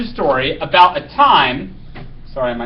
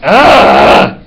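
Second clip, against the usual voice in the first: screaming ugh; 2 semitones higher, 10 dB louder than usual. Acted. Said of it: "Anna screams".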